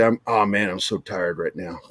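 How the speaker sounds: low, worn-out Southern accent; tired Southern accent. Shown as a demonstration. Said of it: "when I get really tired".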